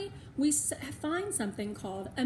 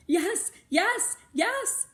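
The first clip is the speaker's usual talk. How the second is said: rising, louder, excited yeses; eager yes; 10 semitones higher, 8 dB louder, much slower than usual. A narrator's reading. Melody eagerly answering Missus V, excited. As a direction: pile on the excitement.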